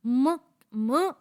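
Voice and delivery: म hummed alone, twice; teacher sounds out म. Shown as a demonstration. Teacher showing students the म sound, isolated. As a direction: model the म sound slowly. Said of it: "मीम की जो sound है".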